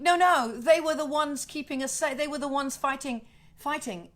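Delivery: mild mock scream that fades toward the end; a hint of a desperate yell, trailing off; retold scream. Journalist protesting to the police, mild mock scream. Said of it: "The journalist is screaming".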